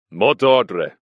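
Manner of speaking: sharp, loud challenge; suspicious guard demanding password. A narrator's reading. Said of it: "he said sharply".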